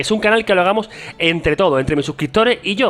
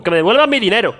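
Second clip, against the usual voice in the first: mock outraged demand; 5 semitones higher than usual. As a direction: play the cheated buyer demanding a refund. Mock outrage at his own masterclass.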